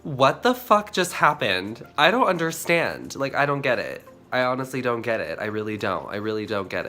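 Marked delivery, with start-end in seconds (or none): 0.0-5.4 louder, baffled and rattled; confused outburst. Real, not acted. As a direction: sound truly lost about the footage. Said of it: "I'm, like, really confused".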